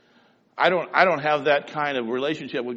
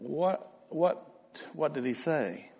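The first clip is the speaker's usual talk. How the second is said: stunned disbelief; 7 dB quieter, slower than usual. Retold or imitated. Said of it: "And I thought".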